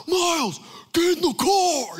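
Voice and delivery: high, loud call up the house; impatient parent shouting for the kid; yelling for son. Retold or imitated. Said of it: "I'm yelling for him".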